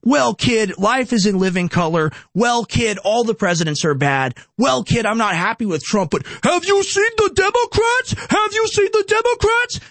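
condescending mock boomer, rising high and mocking on the last question; smug mocking. Mocking smug boomers brushing off a worried kid, condescending. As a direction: sneer it like a smug elder talking down to a kid. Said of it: "they literally smugly will laugh at you and say".

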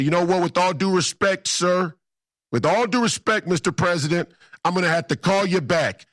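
high, emphatic imagined brush-off; mock-polite defiance. Imagined defiant reply to the President.

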